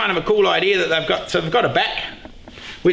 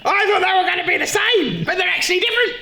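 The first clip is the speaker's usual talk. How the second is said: panicked surprise; 11 semitones higher than usual. Real, not acted. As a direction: voice jumps much higher, laughing in disbelief. Panics discovering drills differ.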